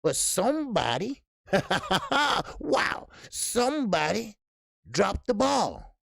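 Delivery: high, breaking into laughter mid-story; can't hold the laugh in. Real, not acted. Telling viewers someone dropped the ball, laughing hard.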